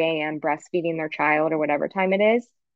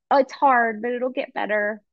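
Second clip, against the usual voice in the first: lightly voiced, higher-pitched consoling; imitated reassurance; 5 semitones higher than usual. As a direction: offer comfort as an imagined advice-giver, pitched up. Voices reassurance nobody gave her.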